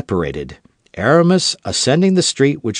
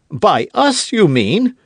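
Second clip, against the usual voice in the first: high offended retort; indignant cry; 10 semitones higher, 3 dB louder, slower than usual. Acted. D'Artagnan to Aramis, crying out indignant. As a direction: fling the question back. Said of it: "cried D'Artagnan".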